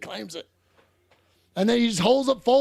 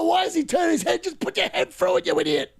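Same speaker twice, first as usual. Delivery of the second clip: exasperated rant; 7 semitones higher than usual. Real, not acted. Ranting at the striker.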